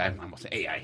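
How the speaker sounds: put-on Mexican accent. A speaker demonstrating how they say a word, in a mexican accent. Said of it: "Como I say with the Mexican accent".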